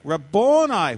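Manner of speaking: loud, drawn-out exclamation; crying out. Acted. Mary recognizing her teacher, crying out. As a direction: cry it out in recognition. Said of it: "cried out in Aramaic".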